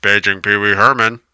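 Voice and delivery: mock store intercom page; PA announcer.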